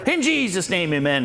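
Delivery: high-pitched mock fervent prayer; imitated prayer ending. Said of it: "She finishes up the prayer".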